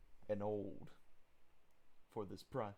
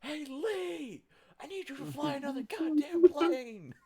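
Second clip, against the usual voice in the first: loud shout upward, higher; yelling; 11 dB louder, slower than usual. Acted. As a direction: yell up through the floor. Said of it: "can I just yell up through the floor".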